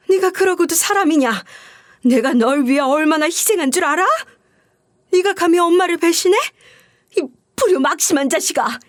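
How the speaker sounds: a hint of a mother shrieking at her son; mock angry yell. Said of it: "쌍욕을 내뱉으면서 이렇게 소리를 지르고 말았죠".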